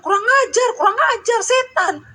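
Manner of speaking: mock parrot cursing; rude parrot. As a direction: screech the curses like a badly trained bird. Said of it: "dia bilang".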